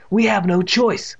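measured, irritated concession; angry. A narrator's reading. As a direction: give in slowly with a touch of anger. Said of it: "in the voice of a angry narrator".

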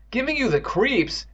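high, drawn-out echo; incredulous cry. Acted. Evan cries back at Andy's complaint, incredulous. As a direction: throw the words back in disbelief. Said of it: "Evan cried".

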